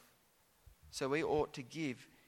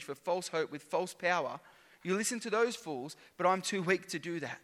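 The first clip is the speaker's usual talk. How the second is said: sarcastic. Retold or imitated. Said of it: "Paul is speaking here sarcastically to them".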